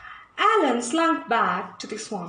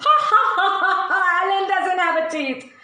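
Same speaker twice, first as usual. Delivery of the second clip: louder, laughing taunt; mocking laughter; 4 semitones higher, 4 dB louder, faster than usual. Jungle animals laughing at toothless Alan, mocking laughter. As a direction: cackle at him while teasing.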